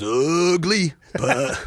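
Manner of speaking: mild imitation of Brett's quip; quoting Brett. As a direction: toss off the line like a relieved pilot. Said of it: "And Brett goes".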